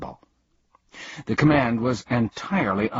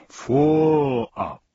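high, drawn-out grunt; overfed grunt; 6 semitones higher, 5 dB louder than usual. A narrator's reading. Undersecretary reaching for the last cake, grunting. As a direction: push it out louder, too full. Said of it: "grunted the Undersecretary".

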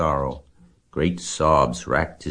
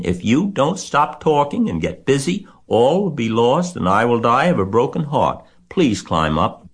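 high, loud pleading; desperate; 8 semitones higher, 5 dB louder than usual. A narrator's reading. Wilbur begs Templeton to climb up, desperate. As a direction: plead as if all is lost. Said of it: "said Wilbur in desperation".

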